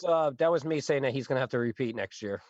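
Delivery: squeaky high-pitched phone voice; helium voice. Real, not acted. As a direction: sounds like sucked on helium. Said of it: "sucked on a dozen helium balloons".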